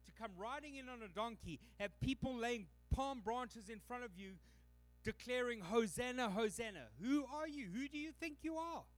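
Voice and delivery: scoffing leaders rising to a high indignant challenge. Acted. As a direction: play the affronted priests demanding who he is. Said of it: "they would have been going".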